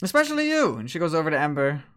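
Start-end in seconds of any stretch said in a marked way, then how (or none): 0.0-0.7 lilting higher tease; single her out, coy and high; flirty succubus. Acted. Succubus singling out Ember, higher flirty tease.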